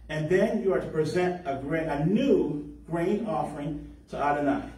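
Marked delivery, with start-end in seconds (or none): 1.9-4.7 "new" leaned on and slowed; slow down and press "new"; stress on new. Shown as a demonstration. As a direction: dwell on the word "new" in "a new grain offering". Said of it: "Notice I emphasize the word new".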